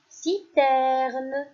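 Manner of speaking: "mallette" projected clearly; teacher calling out "mallette"; loud dictation. Shown as a demonstration. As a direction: dictate "mallette" with a falling tune. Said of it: "Je répète".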